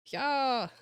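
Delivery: high, loud and thrilled; excited. Real, not acted. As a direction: gush over the new content. Excited about new episode.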